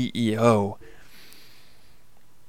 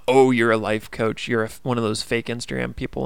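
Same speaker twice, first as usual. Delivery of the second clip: mocking jab. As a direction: needle him like a bully coworker. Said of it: "stabbing me".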